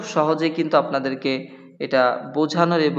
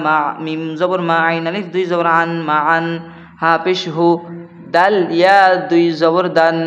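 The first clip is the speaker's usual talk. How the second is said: Qaida spelling recitation. Acted. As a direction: spell it out to students in a chanting beat. Spells words syllable by syllable.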